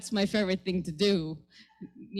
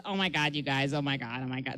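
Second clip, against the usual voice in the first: put-on Valley girl voice; 9 semitones lower, 6 dB quieter than usual. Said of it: "That's how, by the way, uh, uh, White Valley voice girls sound to me".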